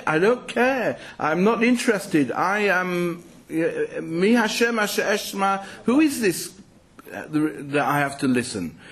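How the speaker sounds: mildly acted defiance, pitched high; defiant. Speaker voicing Pharaoh refusing to listen to Moses, defiant.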